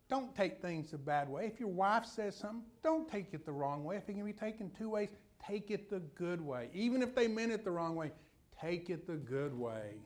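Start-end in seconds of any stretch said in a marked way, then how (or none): none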